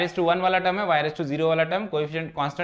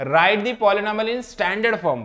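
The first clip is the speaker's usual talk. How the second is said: slow reading; 2 semitones higher, much slower than usual. Shown as a demonstration. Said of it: "अपने को क्या बोला है?".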